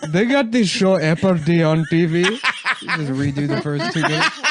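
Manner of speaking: loud laughing mock Indian accent. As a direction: ham up an Indian accent, giggling. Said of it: "in an Indian voice".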